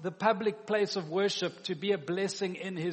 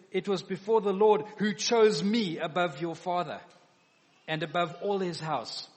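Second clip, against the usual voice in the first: retaliation blow; 6 dB louder than usual. Retold or imitated. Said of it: "now he takes his swipe back at her".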